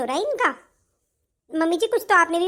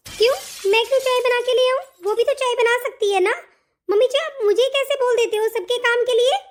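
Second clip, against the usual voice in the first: higher-pitched, affronted protest; indignant; 4 semitones higher than usual. Acted. Daughter-in-law refuses mother-in-law's tea order, indignant. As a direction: object indignantly to being ordered about.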